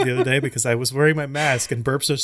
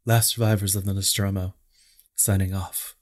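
mock sign-off; 6 semitones lower than usual. Mock final log sign-off.

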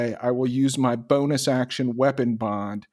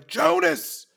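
mild yell. Acted. Player calls to an ally across the battlefield, mild yell. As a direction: call out "Jonas" as a short yell. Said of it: "I'm gonna yell".

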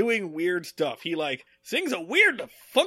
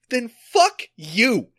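measured "fuck you", slow and firm; slow, firm curse before it explodes; slow, pointed curse; 5 dB louder, slower than usual. Real, not acted. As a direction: lean on "fuck" slowly, just before blowing up. Ranting at fans of the show.

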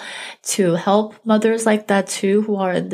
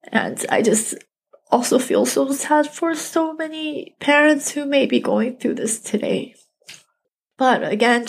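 real grief pushing the voice higher, nearly breaking; emotional, close to tears; 3 semitones higher than usual. Real, not acted. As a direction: voice catching as she holds back tears. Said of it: "right now I'm feeling kind of emotional".

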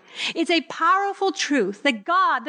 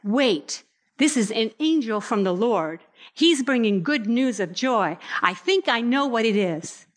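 lower, musing inner voice; dawning shepherd realization; 4 semitones lower than usual. Retold or imitated. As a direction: think it through as a lightly voiced shepherd. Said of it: "they would have immediately started to think".

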